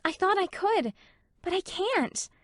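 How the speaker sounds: high, strained voice; distressed Anne. A narrator's reading.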